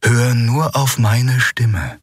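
hypnotic, stretched-out instruction; commanding. A narrator's reading. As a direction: guide her with slow, insistent commands. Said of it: "befahl der Shayang".

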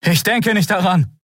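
high, curt refusal; fleeing man refusing; defiant Kai. Acted. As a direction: throw it back over the shoulder.

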